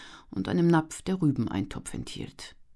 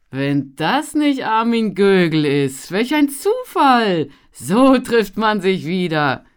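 loud, much higher, slow hearty welcome; delighted greeting; 7 semitones higher, 12 dB louder, slower than usual. A narrator's reading. Traveller greeting his old acquaintance Armin, loud and delighted. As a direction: boom out a surprised hello. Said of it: "Lachend stellte er seine Kiepe".

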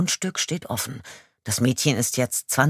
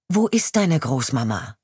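firm voice; 2 semitones higher, 4 dB louder than usual. Acted. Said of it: "frage ich mit fester Stimme".

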